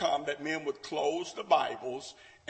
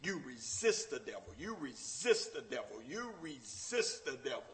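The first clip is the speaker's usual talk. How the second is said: quiet repetition; 5 semitones lower, 6 dB quieter than usual. Acted. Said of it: "He said".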